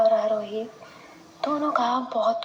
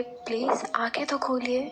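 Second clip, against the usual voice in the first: gentle coaxing; 3 dB quieter than usual. Acted. Soft coaxing.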